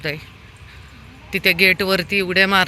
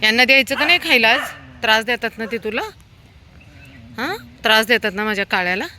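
higher, louder pet-talk; playful dog talk; 3 semitones higher, 4 dB louder than usual. Real, not acted. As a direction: soothe and tease the dogs at feeding. Talking to dogs at feeding.

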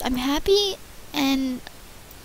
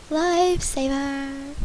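slowed word; much slower than usual. Shown as a demonstration.

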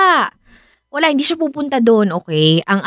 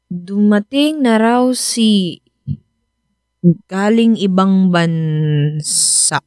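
stunned; 3 semitones lower, much slower than usual. Acted. Wife reads shocking text message.

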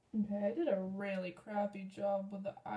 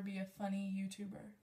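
whisper; 6 dB quieter, faster than usual. Real, not acted. Self-deprecating aside to camera.

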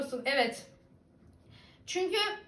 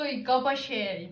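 reading a comment; 2 semitones lower than usual. Retold or imitated. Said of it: "demiş".

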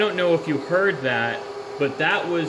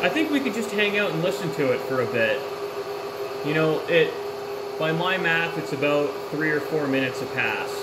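machine noise behind. Real, not acted. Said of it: "I am sorry for the noise of the machine".

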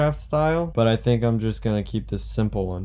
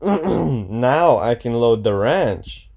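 now I can load the ranch, slowed right down like a grand reveal; mock-grand slow announcement; slow dramatic pronouncement; 4 dB louder, much slower than usual. Shown as a demonstration. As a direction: announce it slowly, savoring every word. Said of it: "Wait, what?".

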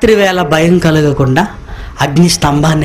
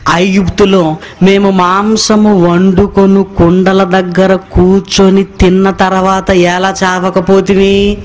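drawn out, slow whining complaint; slow mocking grumble; slower than usual. Preacher mimics Israelites grumbling at Moses, slow and whiny. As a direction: drag it out like a sulking crowd.

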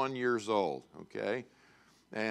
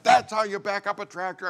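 high, loud mock lecture; retold fatherly scolding; exasperated father; 8 semitones higher, 5 dB louder than usual. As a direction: imitate a dad yelling his point home. Exasperated father demonstrating to son.

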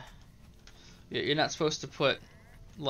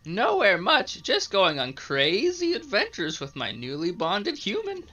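high sprite voice; 4 semitones higher than usual. Acted. Voicing the green sprite.

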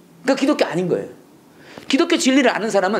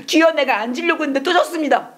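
higher, hammed-up whining lament to God; mock self-pitying prayer; 8 semitones higher than usual. Preacher mocks a self-pitying prayer, whiny lament. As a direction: play a believer bemoaning his own failure. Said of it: "막 신세를 한탄하며".

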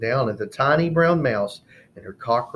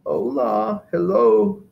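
warm honey voice; 11 semitones higher, 5 dB louder, slower than usual. Acted. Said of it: "His voice was like warm honey".

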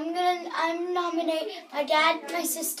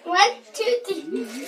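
loud countdown; 2 semitones higher, 8 dB louder, slower than usual. Real, not acted. Counting down to the ice bucket.

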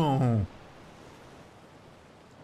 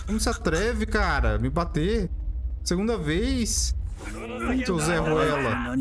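raging gamer; 3 semitones higher, slower than usual. Real, not acted.

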